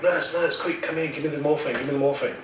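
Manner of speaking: high, urgent call for help; imitated yell. Patient begging the nurse for morphine, urgent yell. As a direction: call out fast and high in pain. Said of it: "I yell out to the nurse".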